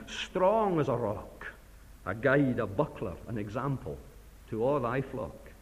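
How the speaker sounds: put-on Burns in an Ayrshire Scots accent, read as a grave prayer. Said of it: "I apologize for my, um, accent".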